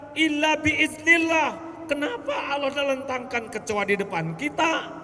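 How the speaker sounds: high, loud sermon at full force; full-force preacher's cry; fiery preaching. Acted. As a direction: preach it out to the crowd, rising.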